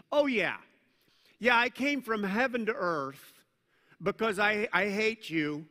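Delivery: loud, mocking agreement; sarcastic Jesus. Preacher playing Jesus answering fears of torture, heavy sarcasm. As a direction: lay the sarcasm on thick, punchy and exasperated. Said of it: "I'm gonna jump into sarcastic Jesus mode".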